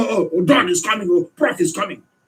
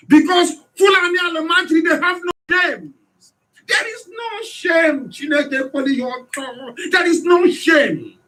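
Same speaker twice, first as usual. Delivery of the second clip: raised, high-pitched outraged shout; 8 semitones higher than usual. Real, not acted. Ranting to his listeners, outraged shout. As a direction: shout the disgust, pitch climbing.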